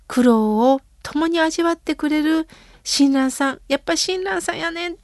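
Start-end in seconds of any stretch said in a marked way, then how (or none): 3.7-5.0 soft Kansai-dialect mother, a touch higher; Kansai dialect quote. Retold or imitated. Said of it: "と関西弁でね". (関西弁で優しく母の言葉を)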